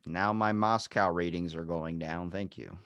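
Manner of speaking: slow, low put-on voice; deadpan it slow and low as a mock Russian official. Plays along as an offended Russian.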